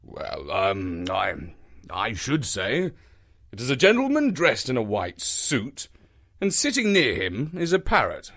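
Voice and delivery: a hint of an unsure doctor; lightly voiced Watson hesitating; hesitant Watson. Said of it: "replied his friend".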